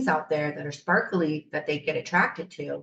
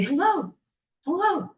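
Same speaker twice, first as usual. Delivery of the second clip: much higher tiny gnome calling out; small high voice from a figurine; little gnome voice; 11 semitones higher than usual. Retold or imitated. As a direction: call hello like a tiny garden gnome. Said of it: "she heard this little voice say".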